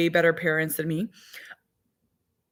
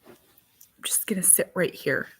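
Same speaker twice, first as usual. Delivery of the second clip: 1 whisper; 6 dB quieter than usual. Real, not acted. Whispered aside.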